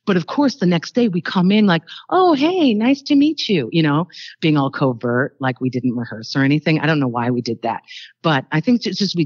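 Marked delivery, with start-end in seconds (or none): 2.1-3.7 much higher, breezy fake surprise at meeting; mock casual greeting. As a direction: play it like strangers meeting, innocently. Feigning first meeting, being covert.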